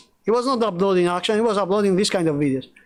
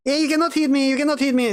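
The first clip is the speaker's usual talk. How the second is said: high, mocking childish voice; mocking kids; 6 semitones higher, faster than usual. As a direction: mimic squabbling kids in a high voice. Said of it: "like, kids doing, you know, like".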